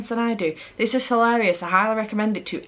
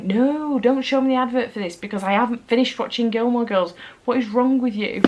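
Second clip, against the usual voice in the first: higher-pitched, exasperated telling-off; mock exasperated protest; 4 semitones higher than usual. Viewer scolding Netflix for showing her the advert, mock exasperated. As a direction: protest in a higher, put-upon voice.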